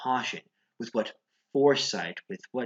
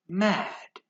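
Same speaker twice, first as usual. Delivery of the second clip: sudden high cry; 9 semitones higher than usual. Acted.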